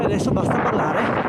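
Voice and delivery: winded, breathing hard. Real, not acted. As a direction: gasp the words out. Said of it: "con il fiatone".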